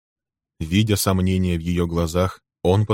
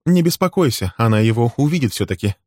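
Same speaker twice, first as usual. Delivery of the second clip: high-pitched, spiteful jab; sting him with spite; bitter, biting reassurance; venomous; 5 semitones higher, 4 dB louder than usual. Acted. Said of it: "желчно произнесла Милли".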